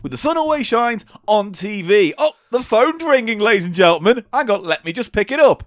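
chatty eighties radio host on air; Steve Wright DJ accent. Pretend. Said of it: "I'm just gonna do an accent".

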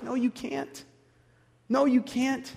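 soft, pitying refusal; pitying God, quiet. Acted. God gently tells the sinner no, softly and with pity. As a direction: let it fall gently, with pity. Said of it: "God looks at us with pity and says".

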